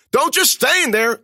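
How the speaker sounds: high, loud, slow furious order; angry shout. A narrator's reading. Narrator shouting at Alani to help, angry and loud. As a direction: snap it at her.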